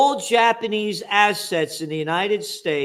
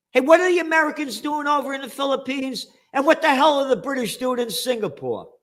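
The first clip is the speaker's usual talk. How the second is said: sarcastic questions; 6 semitones higher, faster than usual. Pretend. Sarcastic questions about colonial powers.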